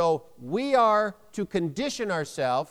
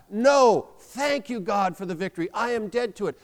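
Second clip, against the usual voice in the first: raised, emphatic declaration with a loud NO; firm, rallying proclamation; like you believe it; 3 semitones higher, 3 dB louder than usual. Shown as a demonstration. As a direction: proclaim each phrase with conviction. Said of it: "let's say it like we believe it".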